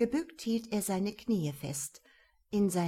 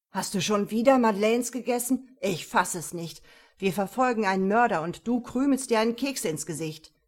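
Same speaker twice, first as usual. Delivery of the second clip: exasperated scolding; 6 dB louder than usual. Acted. Partner scolds Emil over biscuits.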